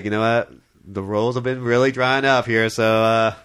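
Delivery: put-on Texas accent for a movie star. Host imitates Clint Eastwood explaining his dry spell, in a light Texas accent. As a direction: lightly imitate a Texan actor. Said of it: "doing that in a Texas accent".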